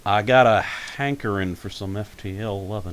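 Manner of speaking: lightly voiced cartoon Southern kid; Bobby. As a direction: put a touch of Southern twang on it. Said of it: "Bobby, that guy".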